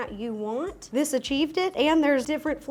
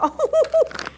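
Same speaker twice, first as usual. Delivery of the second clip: amazed; 8 semitones higher, 5 dB louder, much slower than usual. Real, not acted. Amazed by strawberry gummies.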